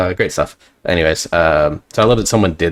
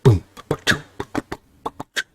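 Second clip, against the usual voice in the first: loose boomy drum sound; 6 semitones higher than usual. Shown as a demonstration. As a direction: mimic a drum, cheeks slack. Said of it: "It's very, very loose here".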